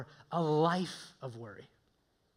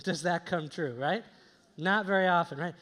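usual speaking voice

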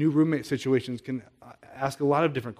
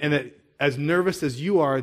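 normal talking voice

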